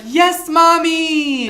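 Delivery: high, slow squeaky robot voice; mock fridge voice. YouTuber mocking a kids' fridge: squeaky high robot voice.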